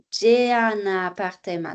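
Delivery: "un appartement" joined as "u-nappartement"; linked consonant. Shown as a demonstration. Teacher shows enchaînement here, linked. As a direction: carry the n of "un" onto "appartement". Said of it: "Donc, on fait ici l'enchaînement".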